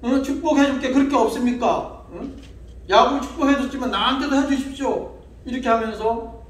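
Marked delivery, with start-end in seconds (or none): 0.0-5.2 raised, pleading son's voice, a hint of tears; pleading Esau. Esau begs his father Isaac for a blessing, pleading. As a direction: beg the father for a blessing, half-sobbing. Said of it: "애원을 합니다".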